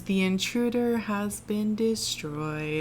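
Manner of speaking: slow, mock-sad announcement; mock mournful. Imitating the movie voiceover lady, mournful and slow. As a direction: read it like someone killed her puppy. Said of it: "she says it like somebody killed her puppy".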